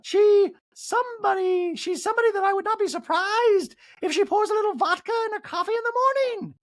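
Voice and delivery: high mock Dorit voice; Dorit impression. Recapper mocking Dorit accusing Sutton, high voice. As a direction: squeak it out as Dorit. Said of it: "Dorit's like".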